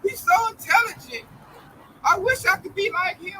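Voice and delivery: high-pitched gushing fan, imitated; hammed-up adoring audience member; mock admirers. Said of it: "You know, they all clap".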